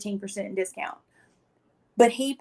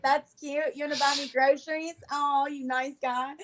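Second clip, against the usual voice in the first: higher, sarcastic gushing, slowing at the end; mock sweetness; 4 semitones higher than usual. Ungrateful guest mocking his offer of groceries, condescending. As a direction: coo condescendingly, hammed up. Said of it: "God, you ungrateful little shit".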